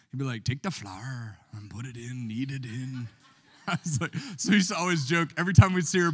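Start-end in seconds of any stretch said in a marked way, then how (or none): 0.4-3.1 imitating Irish. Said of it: "Irish guy's YouTube video".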